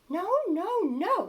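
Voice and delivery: high, loud firm no; little wolves refusing. Acted. Wolf cubs refuse the pig at the door, high and loud. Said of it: "said the three little wolves".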